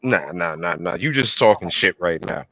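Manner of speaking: low, soft muttering; dismissive dragon. Acted. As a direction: wave it off quietly in a low voice. Dragon dismissing her request.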